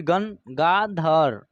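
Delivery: गंगाधर said slowly; slow demo word. Shown as a demonstration. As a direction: read गंगाधर syllable by syllable. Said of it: "ग के ऊपर एक बिंदी".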